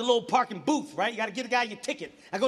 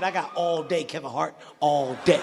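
deadpan threat; 6 semitones lower, slower than usual. Retold or imitated. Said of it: "He looked me dead in the eye".

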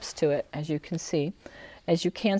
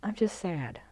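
soft sadness; 7 dB quieter than usual. Shown as a demonstration. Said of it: "very soft and kind of tender and quiet".

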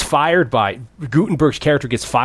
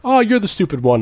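mock dismissive; 9 semitones higher than usual. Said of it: "He's like".

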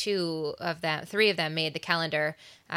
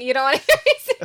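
laughing; 7 semitones higher, 9 dB louder, much faster than usual. Real, not acted. Teasing offer to sing.

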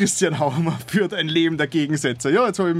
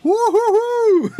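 high hooting laugh; 7 dB louder, much slower than usual. Real, not acted. Reacting to announcer voice.

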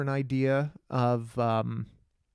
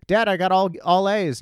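put-on "Dad, I got all A's" said higher and louder, like a proud boy; eager kid; 5 semitones higher, 3 dB louder than usual. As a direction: announce it like a kid hoping for praise.

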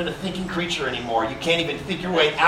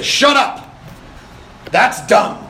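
mock blunt bark at a boy, louder and higher; 5 semitones higher, 4 dB louder, slower than usual. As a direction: bark it like a gruff dad. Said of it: "a boy that I could just say".

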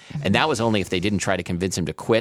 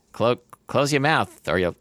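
put-on Boston accent; 2 semitones higher than usual. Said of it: "I don't know how to do a Boston accent".

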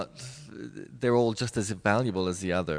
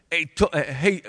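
put-on a quick trial of a Brooklyn Italian accent, higher and louder; 7 semitones higher, 6 dB louder than usual. Dancer trying her old West Side Story line, Brooklyn Italian accent. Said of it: "like some Brooklyn Italian accent".

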